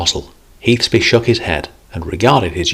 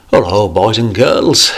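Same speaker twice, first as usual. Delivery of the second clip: louder, bright hearty hello; jovial grandfather hello; cheery greeting; 3 semitones higher, 5 dB louder than usual. Acted. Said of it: "he cheered".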